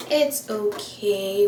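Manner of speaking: drawn out slowly, spoken aloud; slow reassurance. Real, not acted. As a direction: slowly talk yourself down. Consoling herself after mascara smudge.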